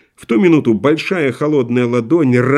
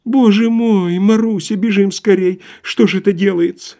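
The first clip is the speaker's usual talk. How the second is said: alarmed bystander; 7 semitones higher than usual. Acted. Frightened bystander urges Marusya away.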